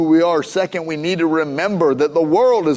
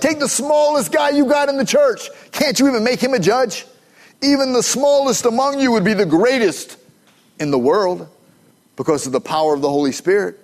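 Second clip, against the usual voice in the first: higher, pushy mock Paul voice; 8 semitones higher than usual. Paul prodding the church to pick judges, voiced higher. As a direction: play Paul needling his church. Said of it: "He's like".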